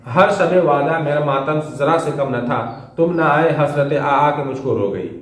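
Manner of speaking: slow, lyrical reading of the couplet; poem recitation. Acted. Teacher reads the third sher to the class, slow lyrical recitation. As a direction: savour each word of the sher.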